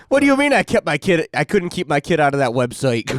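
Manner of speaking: high-pitched, hammed-up parental indignation; mock outraged parent. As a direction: play a parent protesting in disbelief. Acted outraged parent complaining about website.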